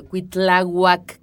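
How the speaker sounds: Tonatzin spelled out very slowly, syllable by syllable; Tonatzin, each syllable drawn out; slow careful Nahuatl. Shown as a demonstration. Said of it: "muy difícil pronunciar". (Tonatzin muy lento, sílaba por sílaba)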